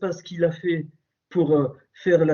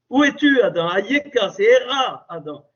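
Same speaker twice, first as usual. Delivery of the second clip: God's call to hiding Adam, rising then fading; 5 semitones higher than usual. Retold or imitated. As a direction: call across the garden, then let the name fall away. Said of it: "quand il dit".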